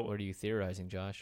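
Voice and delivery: flat robot voice with poker face; deadpan robot monotone. Real, not acted. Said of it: "hard not to talk like a robot when you're doing the face".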